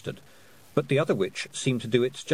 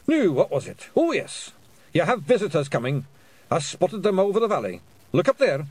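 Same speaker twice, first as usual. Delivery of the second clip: Scottish Feegle voice; 7 semitones higher, 4 dB louder than usual. Acted. Hamish's Scottish voice.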